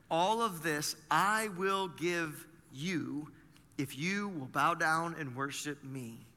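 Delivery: slow, drawn-out tempter's offer, lightly voiced; slow Satan offer. Pastor voicing Satan tempting Jesus, slow lightly voiced offer. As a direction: dangle the offer slowly like a tempter.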